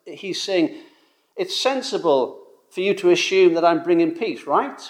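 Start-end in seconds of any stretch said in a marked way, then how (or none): 1.3-4.8 inviting agreement, rising on right; leading question with a questioning lift; open-ended question. Retold or imitated. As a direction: ask it as if the answer is obvious. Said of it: "That's sort of the way he says it".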